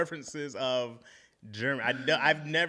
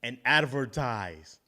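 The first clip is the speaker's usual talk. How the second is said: Arnold Schwarzenegger impression; 3 dB louder than usual. Podcaster quoting a star's motivational advice, Arnold Schwarzenegger impression. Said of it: "He don't talk like that".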